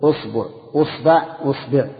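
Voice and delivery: أصبع with u on the first vowel: usbu, usba, usbi; teacher drilling the u forms of أصبع. Shown as a demonstration. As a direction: sound out أصبع starting with a rounded u. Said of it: "ضم الهمزة".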